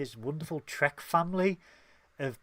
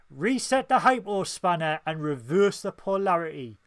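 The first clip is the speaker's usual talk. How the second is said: reading a fan comment; 3 semitones higher, 6 dB louder than usual. Retold or imitated. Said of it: "So Captain Quinn says".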